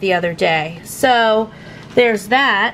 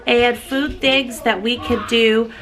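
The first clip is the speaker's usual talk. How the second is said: mock announcer sign-off; 3 semitones higher than usual. Shown as a demonstration. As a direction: say it like a show intro. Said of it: "That sounds better".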